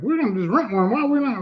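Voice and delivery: retold objection. Retold objection about renting laptop.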